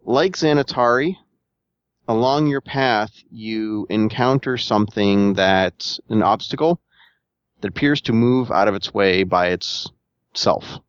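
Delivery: slow, deliberate scene setting with pauses; game master narration. Acted. Game master describes an obstacle on the player's path, deliberate narration. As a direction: unfold it piece by piece.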